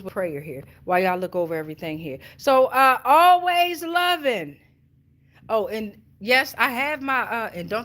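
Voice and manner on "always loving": drawn-out name. Real, not acted.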